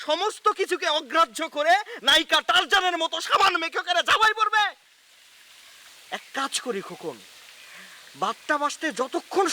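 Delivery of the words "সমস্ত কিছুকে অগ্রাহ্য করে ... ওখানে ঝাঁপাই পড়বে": worked-up rant rising in pitch; agitated. Acted. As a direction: build to an exasperated, high-pitched question. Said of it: "আপনি উত্তেজিত হবেন না". (উত্তেজিত গলায়)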